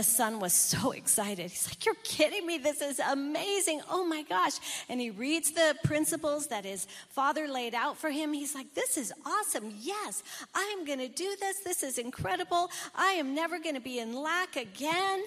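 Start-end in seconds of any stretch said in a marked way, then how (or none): 1.8-4.5 higher, eager disbelief; thrilled at the surprise gift; excited son. Acted. Preacher voicing the son told he is rich, excited. 8.7-15.2 higher, fast, bubbling over; excited resolve. Acted. Preacher voicing the son vowing to follow the principles, excited and fast.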